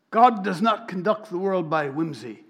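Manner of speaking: a hint of the British rabbi, lifted and weighty; quoting the rabbi. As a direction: repeat the line as a solemn quotation. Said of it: "he sounds like him".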